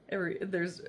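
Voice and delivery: nose whistling on breath. Real, not acted. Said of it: "sorry, my nose is whistling".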